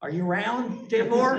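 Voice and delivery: a lightly hammed-up Southern drawl calling out. Teasing Janice with the radio in a mock Southern drawl. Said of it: "I had that Southern drawl kick in".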